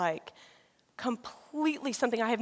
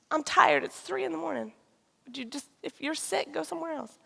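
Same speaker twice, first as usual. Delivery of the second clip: irritated; 4 semitones higher than usual. Retold or imitated. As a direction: retell a tired, impatient brush-off. Retold irritated night-time quarrel with husband.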